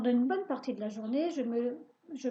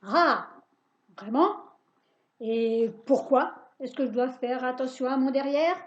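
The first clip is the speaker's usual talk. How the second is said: louder, spiteful little witch voice; sour witch voice; 6 dB louder than usual. Acted. Witch catching the boy out, louder and spiteful. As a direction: sneer it back at him. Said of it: "une petite voix pointue, aigre, méchante".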